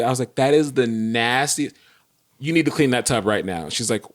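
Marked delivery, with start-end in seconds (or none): 0.3-1.8 slow, emphatic disgust, understated; retold anger. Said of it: "I was so angry". 2.4-3.7 understated, firm command; retold angry order. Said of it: "I was so angry".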